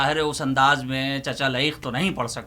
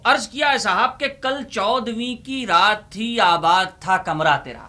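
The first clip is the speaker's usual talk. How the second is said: poem recitation; 6 semitones higher than usual. Acted.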